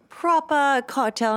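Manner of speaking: lightly mock English accent on "proper". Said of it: "fake an English accent".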